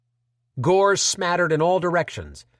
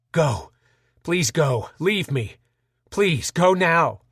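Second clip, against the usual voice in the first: mad scream; 3 semitones higher, slower than usual. Acted. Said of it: "he screamed madly".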